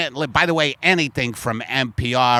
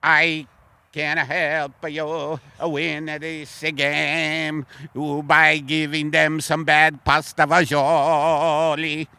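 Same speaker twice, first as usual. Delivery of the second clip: put-on Italian alien accent; slower than usual. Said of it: "Italian alien".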